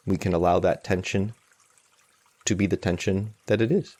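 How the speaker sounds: calm meditation guide with long, unhurried pauses; guided meditation. Acted. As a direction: guide them gently, leaving space between phrases.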